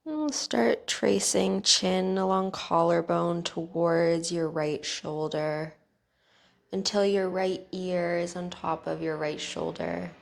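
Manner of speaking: calm, even guiding voice with long pauses; guided meditation. Real, not acted. Teacher guiding listeners through bedtime neck stretches, calm guided meditation.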